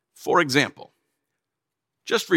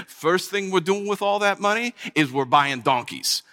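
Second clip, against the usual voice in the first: laughing. Acted. Laughing while dreaming of money.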